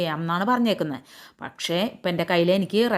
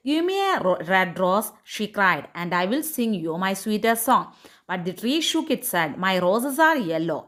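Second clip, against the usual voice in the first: slow, measured English read-aloud; story reading; much slower than usual. A narrator's reading. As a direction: read the tale slowly, phrase by phrase. (സാവധാനം കഥ വായിക്കുന്നു)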